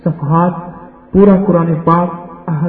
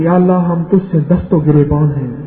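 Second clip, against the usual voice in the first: lightly imitated Pashtun accent, lower prayer tone; Pashtun cleric's accent; 5 semitones lower than usual. Preacher imitating a Pashtun imam at Eid prayer, mild Pashtun accent. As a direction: mimic a Pashtun imam's Urdu, half-earnest. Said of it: "ایک پٹھان اور عالم نے دعا مانگی".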